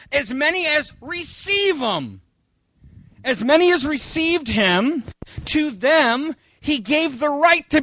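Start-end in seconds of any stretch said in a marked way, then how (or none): 0.1-2.2 slow, sing-song misquote falling at the end; mock misreading. Shown as a demonstration. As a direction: drag it out like the lazy misquote. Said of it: "isn't that what it says?".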